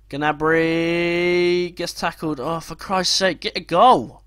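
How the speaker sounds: slow groaning complaint building to a loud demand; exasperated. Real, not acted. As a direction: plead with the players, fed up. Frustrated as player gets tackled.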